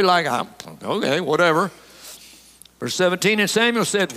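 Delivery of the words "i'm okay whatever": casual, offhand brush-off; nonchalant. Acted. Preacher mimics Saul answering Samuel, nonchalant. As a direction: toss it off as if it hardly matters. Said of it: "Very nonchalantly".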